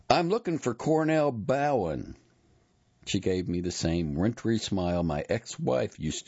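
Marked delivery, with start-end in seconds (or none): 0.1-2.2 raised, higher calling voice. A narrator's reading. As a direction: call across to someone walking away. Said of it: "I called out".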